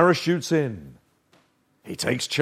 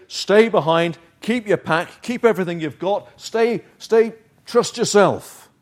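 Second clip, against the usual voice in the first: voice of self; 3 semitones higher than usual. Acted. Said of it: "Self will say".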